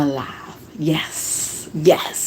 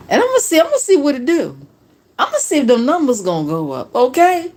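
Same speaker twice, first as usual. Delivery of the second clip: excited; 5 semitones higher, faster than usual. Real, not acted. Excited planning, high pitch.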